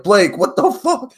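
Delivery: high, loud, drawn-out disbelief; imitating shocked classmates. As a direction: act out a whole class's stunned reaction.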